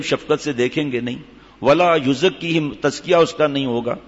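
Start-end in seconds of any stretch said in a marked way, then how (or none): 1.6-2.7 slow, measured Arabic quotation; Arabic scripture recitation. Real, not acted. Preacher citing punishments for covering ankles, slow recitation. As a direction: draw out each Arabic word formally.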